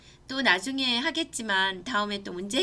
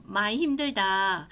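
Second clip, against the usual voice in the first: slow, earnest and a bit louder; 5 dB louder, slower than usual. Shown as a demonstration. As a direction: say it seriously to your son. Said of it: "이렇게 진지하게 얘기하고". (진지하고 천천히)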